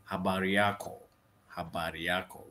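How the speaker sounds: careful tourist-accented Swahili. Shown as a demonstration. Tourist trying a Swahili greeting, tourist accent. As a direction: say it like a visiting tourist. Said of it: "with a tourist accent".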